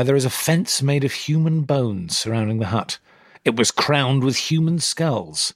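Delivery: measured storytelling read; story narration. A narrator's reading. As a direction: tell it like a bedtime folk tale. Reading the description.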